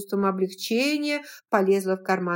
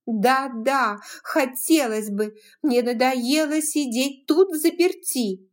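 louder, higher, fed up; defiant young widow, raised voice; defiant outburst; 5 semitones higher, 4 dB louder than usual. Acted. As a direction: snap back in frustration.

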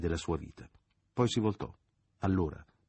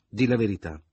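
forced out; 3 semitones higher, 8 dB louder than usual. A narrator's reading. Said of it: "profferì al fine con uno sforzo".

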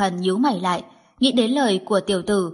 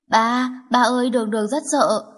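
a lightly voiced small child, frightened; scared little girl; 3 semitones higher than usual. Little girl clinging to her father, lightly frightened child voice. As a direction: call for daddy like a scared toddler.

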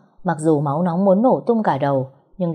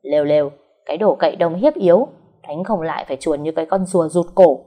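loud taunting jeer; loud childish taunt; mocking shout; 4 dB louder than usual. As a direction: jeer at the fleeing official, clapping. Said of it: "vỗ tay hét lớn".

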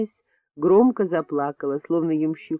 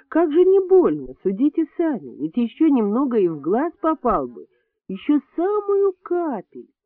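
indignant; 8 semitones higher than usual. A narrator's reading. Indignant nurse complaining to doctor.

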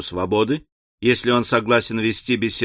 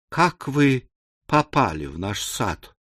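bewildered babble; 3 dB quieter than usual. A narrator's reading. Maid asking the intruder about the garden, bewildered. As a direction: falter through it, at a loss. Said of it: "растерянно пролепетала горничная".

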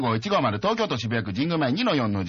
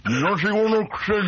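a hint of a snooty rich girl; lightly voiced mean girl sneer; Eliza voice; 5 semitones higher, 4 dB louder than usual. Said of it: "イライザの声も彼女です".

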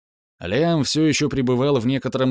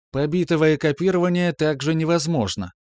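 higher, level computer voice; calm metallic voice; 5 semitones higher than usual. Acted. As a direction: object calmly like a machine. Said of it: "спокойным голосом вновь возразила система".

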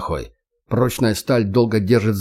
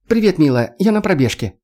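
breathless high woman's voice; panting between words mid-jog; out of breath from running; 7 semitones higher than usual. Acted. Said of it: "Сбивчивый от бега голос".

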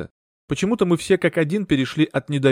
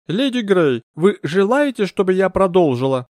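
the grand medium speaking to the séance table; medium's voice; 7 semitones higher, 4 dB louder than usual. Acted. Medium addresses Lady Grey.

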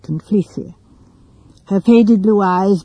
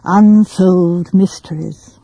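self-conscious pleasure; slower than usual. Acted. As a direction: repeat "Unsolved mysteries" slowly and deliberately, falling at the end. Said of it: "repeated the words with a kind of deliberate, self-conscious pleasure".

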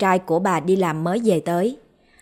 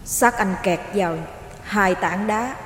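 distant ghostly voice; 5 dB quieter than usual. A narrator's reading. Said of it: "nói với giọng xa xăm".

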